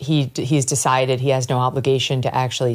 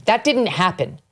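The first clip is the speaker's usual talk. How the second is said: rising, higher-pitched indignant rant; impassioned anger; 6 semitones higher than usual. Real, not acted. Host rails at Mamdani over the victims, voice climbing in anger. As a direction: let the outrage climb to the last line.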